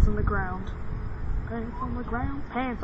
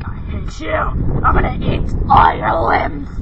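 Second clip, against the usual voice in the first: slow, loud growling threat; angry zombie; 5 dB louder, slower than usual. Pretend. Zombies turn on the vlogger, loud slow threat. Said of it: "Be like".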